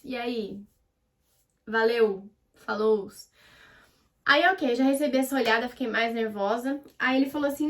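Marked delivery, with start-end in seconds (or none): 0.0-3.1 understated buddy-like cool; deliberately casual. Acted. Trying not to be romantic on a date, casual. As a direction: toss out offhand, unromantic little greetings. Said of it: "Eu fico mais".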